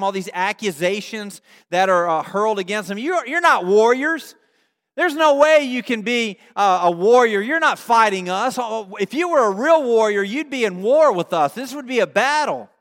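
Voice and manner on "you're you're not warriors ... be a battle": raised-voice jeering accusation; mock shouted insults. Canaanites hurl accusations at silent Israelites, mock shouted taunts. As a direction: challenge their right to be warriors. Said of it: "all these insults that are shouted at them".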